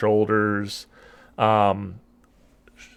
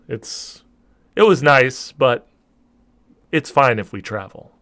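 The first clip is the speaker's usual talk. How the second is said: giant mother; 2 semitones lower than usual. Acted.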